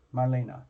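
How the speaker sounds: Marlena as mar-LAY-nuh, falling at the end; three syllables. Shown as a demonstration. Host repeating a client's name, Marlena as three-syllable mar-LAY-nuh. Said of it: "Like three syllables".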